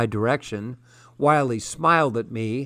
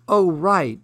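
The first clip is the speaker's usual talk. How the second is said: calling out; 6 semitones higher, 4 dB louder than usual. A narrator's reading. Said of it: "the woman with the iPad called".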